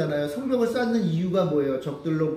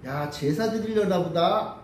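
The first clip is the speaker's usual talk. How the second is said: slow, lightly teasing mockery; needling taunt; slower than usual. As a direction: drag it out to provoke them. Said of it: "약 올리는 거예요".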